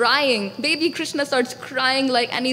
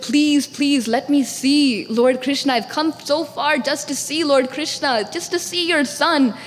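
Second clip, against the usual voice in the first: mildly urgent begging; earnest pleading; 2 semitones higher than usual. Acted. Shiva begging a mother to see her son, pleading. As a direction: plead your case as a visitor who came far.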